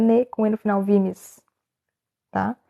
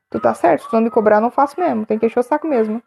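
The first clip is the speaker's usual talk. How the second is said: ordinary talk, nothing marked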